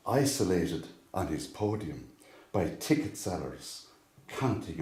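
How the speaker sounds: measured poem recitation, long pauses between phrases; poem reading. Acted. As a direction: recite it line by line, each phrase starting firm and falling away. Reads own poem aloud.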